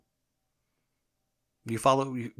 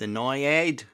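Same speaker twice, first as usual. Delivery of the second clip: put-on failed New York accent; 3 semitones higher, 4 dB louder than usual. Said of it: "That was a little British. Try again".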